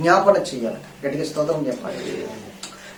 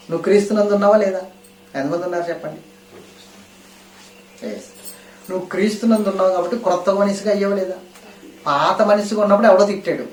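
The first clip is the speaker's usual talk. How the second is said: raised, fast, fervent sermon delivery; full-force preaching; 4 semitones higher, 4 dB louder, faster than usual. Acted. Pastor pressing the congregation, preaching at full force. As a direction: drive the question home to the church.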